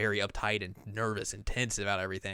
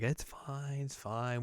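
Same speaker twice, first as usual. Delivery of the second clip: soft reassurance; 4 semitones higher, 8 dB quieter, much slower than usual. Retold or imitated. Retold reassurance of the agent.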